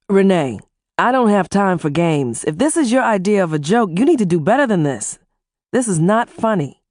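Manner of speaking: a hint of steel, firm and clipped; no patience for games; steely. Husband warning his wife this is no joke, steely. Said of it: "in a steely voice".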